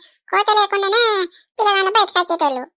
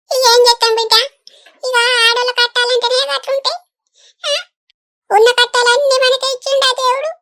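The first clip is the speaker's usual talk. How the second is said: put-on higher, crying through the words over the girl's pain; tearful; 4 semitones higher than usual. Older woman to her friend, grieving over the operation, tearful. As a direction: voice cracking with tears as she laughs and cries. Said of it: "ఏడవకు లింగక్క".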